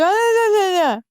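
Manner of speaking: high, wordless garbled wail; can't talk. Retold or imitated. Caller with braces stuck in her gum, high garbled babble. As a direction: imitate frantic babbling with a mouth that won't work. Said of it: "I realize I can't talk".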